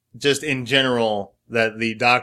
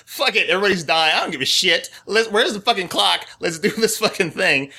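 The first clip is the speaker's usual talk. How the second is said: higher-pitched retold exasperation; mock frustration; 5 semitones higher than usual. Fan voices a fed-up character at the end of her patience, mock frustrated. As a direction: act out being fed up, without raising the volume. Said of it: "she gets so frustrated".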